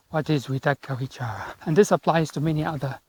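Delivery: out of breath walking uphill; panting between words; audible breathing. Real, not acted. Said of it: "I'm panting so much, I'm going uphill".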